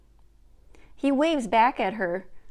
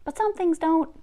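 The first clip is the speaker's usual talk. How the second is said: put-on higher, louder playful boy voice; serious little twist; a touch of gravity; mock serious; 8 semitones higher, 5 dB louder than usual. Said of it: "He looks serious and then says".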